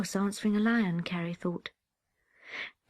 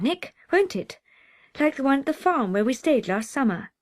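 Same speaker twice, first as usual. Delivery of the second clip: coaxing big sister; 6 semitones higher, 4 dB louder than usual. Acted. Carrie coaxing her little brother.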